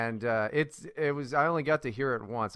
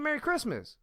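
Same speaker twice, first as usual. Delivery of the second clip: mock Chinese greeting; 13 semitones higher than usual. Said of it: "they were just saying".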